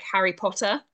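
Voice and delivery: Potter said with a British, clearly sounded T; British T's. Shown as a demonstration. Showing an American the British T's, strong T in Potter. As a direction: give Potter a real T, the British way. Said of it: "the difference with us over here is our T's".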